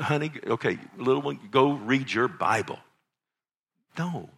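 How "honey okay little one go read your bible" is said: mock dad sending a child off; firm, full-voiced instruction to a little one; acted hands-off parent command; dismissive parental order. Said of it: "You don't go".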